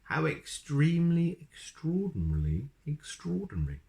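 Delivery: amazed wizard. A narrator's reading. Wizard marvels.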